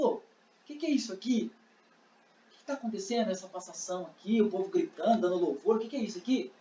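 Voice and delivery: hushed acted aside, well below talking level; softly puzzled bystander; asking a neighbour. Blind man asking the person beside him, hushed. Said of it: "Eu posso perguntar pra quem tá do meu lado".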